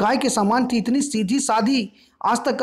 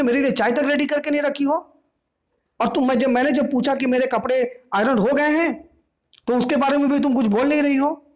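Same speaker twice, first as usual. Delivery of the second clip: raised, scolding complaint; angry; 5 semitones higher than usual. Acted. Daughter angrily scolding mother about tea and ironing. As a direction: lecture her hotly. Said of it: "Doris गुस्सा के बोली".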